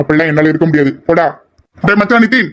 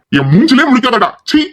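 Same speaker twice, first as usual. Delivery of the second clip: higher-pitched, disgusted rebuff; angry rejection; 5 semitones higher than usual. Acted. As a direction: throw the apology back at him. Rejects a friend's apology angrily.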